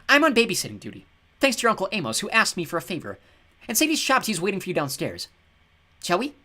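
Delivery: high, loud catlike goddess voice; Bast voice. Acted. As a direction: play the bored cat goddess. Bast's voice held.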